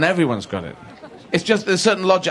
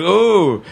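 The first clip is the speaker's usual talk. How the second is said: raised, louder mimicked "ooh"; imitated ooh; 4 semitones higher, 5 dB louder than usual. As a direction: call out a mock pilgrim ooh. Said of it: "they were going".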